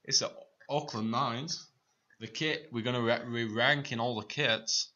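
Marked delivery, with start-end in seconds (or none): 0.0-1.7 mock Australian accent on the Auckland Nines; playful Aussie voice. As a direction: drawl it like an Aussie. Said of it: "don't do the accent again".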